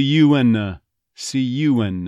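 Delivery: "you and the" linked as "you 'n uh"; dropped TH. Shown as a demonstration. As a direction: reduce "the" to "uh" after "see you and". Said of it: "T H might actually disappear".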